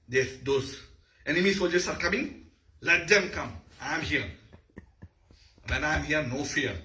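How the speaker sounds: lightly acted fearless confidence; brave warrior. Shown as a demonstration. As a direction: face the enemy with a touch of bravado. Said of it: "He is confident of doing anything".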